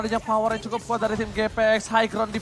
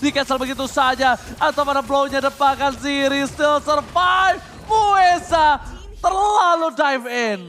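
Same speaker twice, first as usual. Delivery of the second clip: fighting game announcer; 5 semitones higher, 6 dB louder than usual. Real, not acted. Teamfight continues, caster hype.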